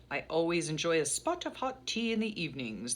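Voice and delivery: hammed-up attempt at a British accent; bad British accent. Vlogger joking about her evening tea habit, in a mock British accent. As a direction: put on a poor British accent, swooping the pitch. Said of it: "That was a horrible accent".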